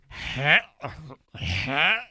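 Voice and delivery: mock dry heave; imitated retching. Dad imitates his sick son, mock retching. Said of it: "he's still like".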